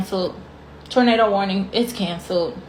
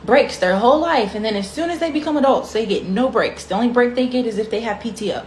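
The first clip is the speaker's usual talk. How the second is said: lightly voiced smug decision-makers, somewhat higher; mock the people who planned it, lightly; mocking the planners; 4 semitones higher than usual.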